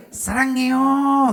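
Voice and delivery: slow, stretched Sarangyo; sweet Korean way; proper Korean tune. Shown as a demonstration. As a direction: draw Sarangyo out tenderly. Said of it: "Memang gitu".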